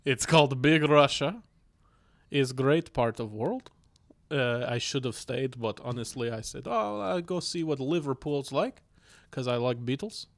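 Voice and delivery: put-on comic Russian accent. Shown as a demonstration. Guest introduces himself as the flatmate, mock Russian accent. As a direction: play a comrade in mock Russian. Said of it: "Russian accent".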